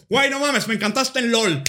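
loud, high gushing; imitated excited fan. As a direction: gush like a starstruck dude. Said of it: "y dice".

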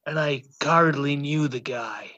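a light Irish lilt; a hint of Irish accent. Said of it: "In an Irish accent".

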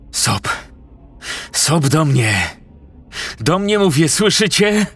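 high, commanding call, rising in anger; angry shout. Acted. Premier shouts at his absent guards, angry and high. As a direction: bark orders at missing guards. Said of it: "krzyknął teraz ze złością".

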